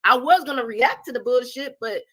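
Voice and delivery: rising to a fast angry burst; heated upset. Real, not acted. Streamer heated at the host for removing the video.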